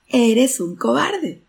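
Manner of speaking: loud, high, drawn-out shout back; echoed shout. A narrator's reading. Mountain echo shouts back at the boy, loud drawn-out yell. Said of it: "la voz le gritó también".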